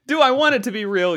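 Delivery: loud, high words through laughter; laughing question. Real, not acted. Admitting to listeners he hopes it's real, laughing. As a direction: let the question ride out on a laugh.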